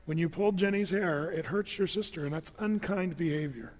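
a father gently explaining a wrong; very calm. Retold or imitated. Father calmly telling son why pulling hair hurt, softly. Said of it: "Very calm, not yelling, not upset".

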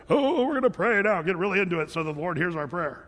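mocking a showy prayer. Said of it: "I see that with healing prayers".

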